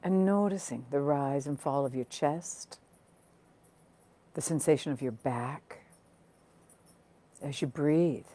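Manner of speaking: calm, unhurried meditation guiding, with long pauses; guided meditation. Acted. Teacher settling online listeners into noticing their breath, guided meditation. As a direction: guide listeners gently inward, phrase by phrase.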